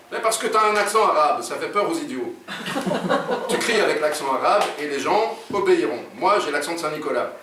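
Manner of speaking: lightly voiced insistent partner; explaining robber. Jean explains why his friend must yell, insistent. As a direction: explain it, pitched a little up.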